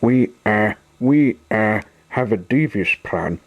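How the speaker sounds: hesitant, unconvincing bluster; trying to sound convincing. A narrator's reading. Kidnapper bluffs to captive Sunshine, hesitantly. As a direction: stumble twice, then try to sound sure. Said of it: "doing his best to sound convincing".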